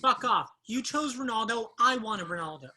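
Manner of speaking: loud, indignant griping; loud complaint. Acted. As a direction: push back loudly at the gloating friend. Losing friend complains about game.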